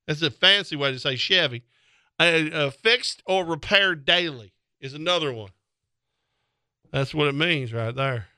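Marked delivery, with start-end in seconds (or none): 0.1-5.5 lightly hammed-up country fan; mock Chevy fan. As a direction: preach it like a proud redneck. Redneck Chevy fan rant.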